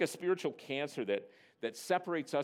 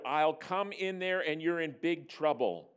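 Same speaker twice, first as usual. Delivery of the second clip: raised, slow parental threat; mock roar; 4 semitones higher, 3 dB louder than usual. Father warning his defiant daughter, slow mock roar. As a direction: draw out the threat with mock authority. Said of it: "I roared".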